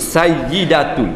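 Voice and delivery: Sayyidatul drawn out slowly with the doubled y; Sayyidatul, slow teaching demo; slow correct Sayyidatul. Shown as a demonstration. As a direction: model Sayyidatul, syllable by syllable. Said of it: "Dia Sayyidatul".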